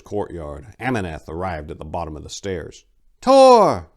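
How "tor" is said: high, loud joyful cry; cry of delight. A narrator's reading. Ameneth overjoyed to see Tor return, delighted cry. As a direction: greet him with a glad shout. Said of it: "Ameneth cried in delight".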